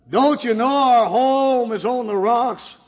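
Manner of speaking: high, loud, slow plea; wife begging drunk husband to quit; pleading wife. Retold or imitated. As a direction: beg him to see the danger. Wife pleading in retold quarrel.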